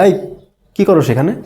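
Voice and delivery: easy question with a rising end; casual questioning tone. Acted. Asking a friend outside a restaurant, casual question. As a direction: ask lightly, lifting at the end. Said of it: "কিন্তু tone কি করেছে?".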